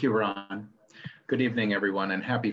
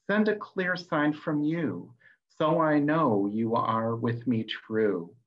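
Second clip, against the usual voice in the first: imploring invocation; 3 semitones higher than usual. Acted. Seer implores the Lady of the Moon, acted invocation. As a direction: call out to a goddess in measured verse. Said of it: "invoking the Lady of the Moon".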